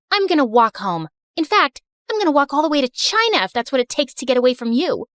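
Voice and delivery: fast, heated retort; angry storming off. Acted. Daughter furious at mom in the parking lot, angry. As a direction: spit it out and walk away.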